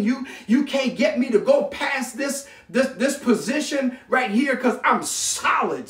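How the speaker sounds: immovable, standing your ground; emphatic refusal. Acted. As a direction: pile up each refusal with building conviction. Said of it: "That's the kind of force".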